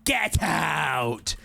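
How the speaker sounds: exaggerated British shout. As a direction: shout it in a put-on British accent. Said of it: "I got so British with it".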